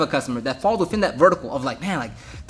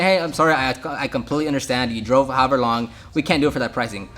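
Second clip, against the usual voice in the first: professional and courteous; 4 semitones lower than usual. Retold or imitated. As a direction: retell a courteous refusal, calmly easing down. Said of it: "still being professional and courteous".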